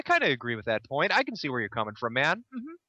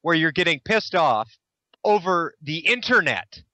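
sarcastic; 4 dB louder than usual. Real, not acted. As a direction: feign sudden understanding, sarcastically. Sarcastic reply to played video.

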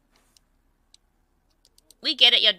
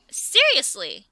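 flat disbelief; slower than usual. Real, not acted. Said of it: "you're just allowing it?".

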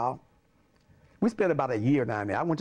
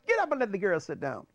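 higher, lightly acted order; mildly voiced retold command; retold principal's order; 4 semitones higher than usual. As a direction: give the instruction as the principal, first time. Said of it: "he say".

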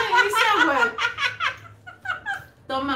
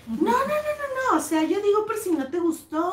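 hurried-to-appease mock teacher, pitched up at first; imitated backing down; 5 semitones higher than usual. Teacher backing down before Elida, imitated appeasing. Teacher backs down in retold quarrel.

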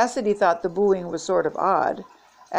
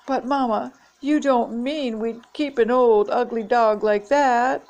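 higher-pitched pleading to Mama; stagey, high-pitched line reading; reciting lines; 4 semitones higher than usual. A narrator's reading. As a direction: act out book lines in a high child-like appeal. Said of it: "started speaking lines from the book".

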